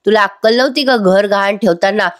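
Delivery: imitating an upset mother's reproach; angry scolding. Mother scolds son for mortgaging the house, mildly angry. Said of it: "चिडतात आणि म्हणतात".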